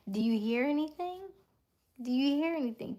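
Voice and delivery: high, loud questioning call. Real, not acted. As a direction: call out to check who can hear. Calls out to listeners, testing sound.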